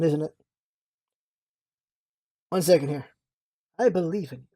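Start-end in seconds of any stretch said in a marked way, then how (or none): 2.5-4.4 lightly voiced self-assured prosecutor, low; understated cool game-character voice; Sidon. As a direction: say it low and unimpressed. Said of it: "there's only one voice I have, and that's, uh, Sidon".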